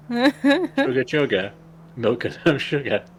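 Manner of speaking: "Sugar, sugar" as "chugga, chugga", then plain "sugar"; train-like CH opening. Shown as a demonstration. Clarifying the catchphrase, "Sugar, sugar" said as "chugga, chugga". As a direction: open the first two on CH, chugging. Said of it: "like a train".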